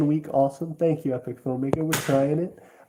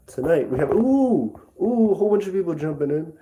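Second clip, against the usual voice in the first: hyped announcer voice, a touch higher; fighting game announcer; 4 semitones higher, 3 dB louder than usual. Shown as a demonstration. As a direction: welcome them in like a game announcer. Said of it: "I don't really have a good announcer voice".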